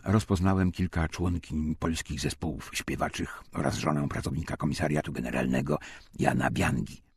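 ordinary delivery

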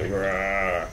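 zombie. Pretend. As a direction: grumble rah like a lazy zombie. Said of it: "I'm just pretend I'm a zombie".

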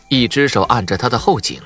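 usual speaking voice

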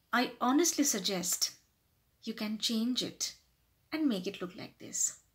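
gentle, tactful advice, softening at the end; humble suggestion. Shown as a demonstration. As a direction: offer a change considerately. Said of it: "try to sound more humble".

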